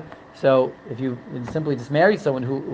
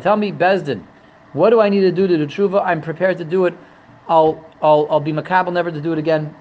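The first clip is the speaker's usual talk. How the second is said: lightly acted begging for mercy; a touch of earnest, insistent pleading; mock pleading. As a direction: plead in mock remorse, mildly. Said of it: "he begs for mercy".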